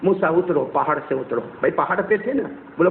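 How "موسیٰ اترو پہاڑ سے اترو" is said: lowered, gentle instruction; loving. Acted. God sends Moses down the mountain, lovingly. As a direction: tenderly coax him down. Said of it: "بڑے پیار سے فرمایا".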